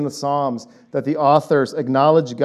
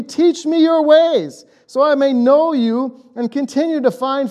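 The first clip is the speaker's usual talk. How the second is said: Moses' heartfelt plea; 8 semitones higher than usual. Shown as a demonstration. Pastor rereads Moses' plea to God, pleading. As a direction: read it with the heart of a frustrated Moses. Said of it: "maybe with the heart of what Moses is actually saying".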